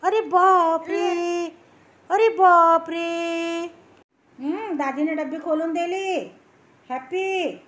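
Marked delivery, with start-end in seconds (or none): 0.0-3.7 slow, stretched oh my god; mock amazement. Grandmother hamming up slow surprise for the toddler. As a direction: ham up the surprise for the child.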